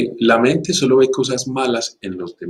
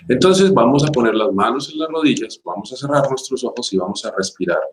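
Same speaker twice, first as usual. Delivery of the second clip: guided meditation. Acted. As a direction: ease listeners into breathing calmly. Leads a meditation.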